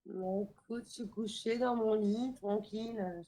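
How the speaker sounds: tipsy and tired. Real, not acted. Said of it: "t'es pompette un peu?".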